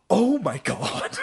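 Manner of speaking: high, slow, drawn-out exclaim; real stunned oh my God; disbelief. Real, not acted. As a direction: stretch it in exasperation. Exasperated disbelief.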